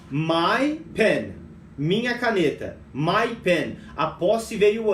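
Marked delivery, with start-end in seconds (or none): 0.1-1.3 slow teaching demo. Shown as a demonstration. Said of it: "Eu falo assim, ó".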